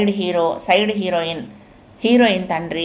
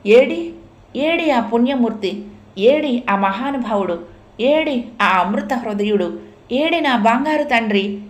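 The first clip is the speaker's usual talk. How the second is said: eager calling out; 4 semitones higher than usual. Acted. Mother searching for her saviour.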